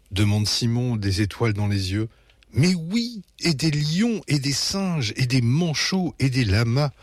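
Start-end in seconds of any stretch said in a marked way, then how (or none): 2.5-6.9 high, bubbly listing of animals; cheerful parents' chatter; joyful babbling. A narrator's reading. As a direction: babble happily like an eager parent. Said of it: "babillent joyeusement les parents".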